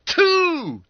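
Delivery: high, loud, drawn shout; yelled. Acted. Schoolmate counting the postal orders, yelling. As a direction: yell it in amazement. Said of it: "yelled Skinner".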